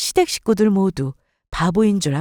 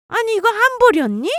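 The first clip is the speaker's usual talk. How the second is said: shocked; 9 semitones higher than usual. Acted. Mother-in-law shocked at IOU.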